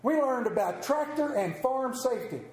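a hint of a proud young son; child's voice. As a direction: chirp it back like an eager kid. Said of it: "They said".

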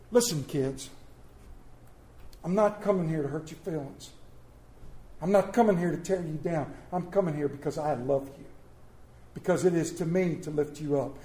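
soft, gentle fatherly voice, hushed a little; tender fatherly Paul. Acted. Paul tenderly comforting his church children, softly reassuring. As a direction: reassure the unruly church like a loving dad. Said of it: "I'm gonna put it in today's words".

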